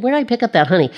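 quick aside with a Southern accent; a Southern lilt on "honey", slipping out. Real, not acted. Preacher puzzled at her own Southern accent. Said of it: "That Southern accent just pops right in there".

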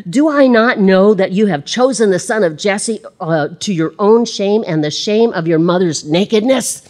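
loud accusing rant; angry king. Acted. Saul accusing Jonathan, loud and angry. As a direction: hurl the accusation. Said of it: "Saul was angry".

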